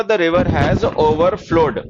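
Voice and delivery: very slow, word by word dictation. Shown as a demonstration. Teacher dictating slowly to students, word by word. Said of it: "तो इसको लिखो".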